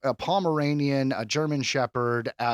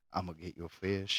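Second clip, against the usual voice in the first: mock fisherman; 7 semitones lower, 12 dB quieter than usual. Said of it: "He's like".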